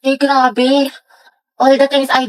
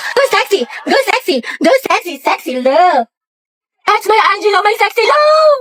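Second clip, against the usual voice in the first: cheering; 7 semitones higher, slower than usual. Acted. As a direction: cheer him on shamelessly. Cheering crush at basketball.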